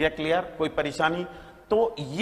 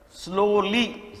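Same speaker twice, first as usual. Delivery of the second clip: slowly drawn out; 4 semitones higher, much slower than usual. Shown as a demonstration. Teacher to class, drawing स्लोली out slowly. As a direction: stretch स्लोली out slowly with a rising end. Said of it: "slow से क्या बना?".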